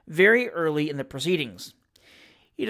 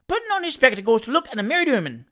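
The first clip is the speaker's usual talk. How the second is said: teasing heckler; 6 semitones higher, faster than usual. A narrator's reading. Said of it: "said a third".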